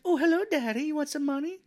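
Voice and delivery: high, flirty come-on; hammed-up sultry lady; mock seductive voice. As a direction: purr it up high like a hooker. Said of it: "She's like".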